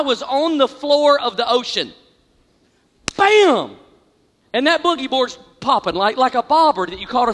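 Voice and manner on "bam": loud bam. Retold or imitated. Wave impact sound.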